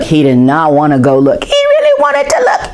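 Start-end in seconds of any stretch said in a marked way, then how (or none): 1.4-2.7 higher, keen; eager. Acted. Boy torn between wanting to look, eager. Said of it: "repeated higher".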